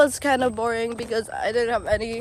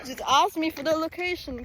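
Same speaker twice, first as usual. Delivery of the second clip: laughing; 5 semitones higher than usual. Real, not acted. Laughing shout to viewers.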